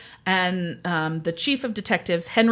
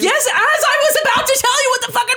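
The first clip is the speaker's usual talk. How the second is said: laughing; 4 dB louder than usual. Real, not acted. Mock annoyed, laughing.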